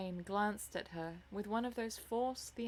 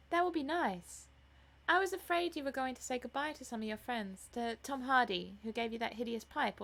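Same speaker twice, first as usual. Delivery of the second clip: put-on higher, lively girlish chatter; affectionate sister, eager; 4 semitones higher, 4 dB louder than usual. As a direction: chatter happily to your brother. Voices the eager younger sister.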